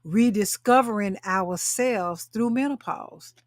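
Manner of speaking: slow, every word weighted; slow emphatic repeat. Real, not acted. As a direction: drive the phrase home slowly. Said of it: "Did y'all hear what I just said?".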